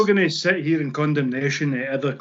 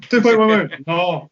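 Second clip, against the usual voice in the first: raised, louder Scottish haggling; thick Scottish accent; 3 semitones higher, 5 dB louder than usual. Acted. Club bosses making that negotiation, in a thick Scottish accent. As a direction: haggle in broad Scottish, then refuse. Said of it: "in that thick Scottish accent".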